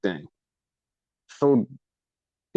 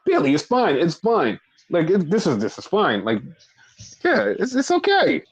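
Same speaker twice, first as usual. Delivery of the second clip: mock Dakota; 4 semitones higher than usual. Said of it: "Dakota's like".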